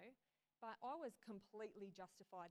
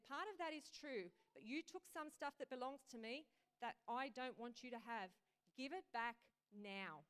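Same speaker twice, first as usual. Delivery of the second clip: firm insistence; 2 semitones higher, 5 dB louder than usual. Acted. Jesus voiced insisting.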